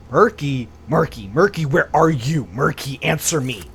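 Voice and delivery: put-on loud calling for a lost child; shouting a name into emptiness; calling loudly. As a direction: call out across the house. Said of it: "Oh, you can really scream".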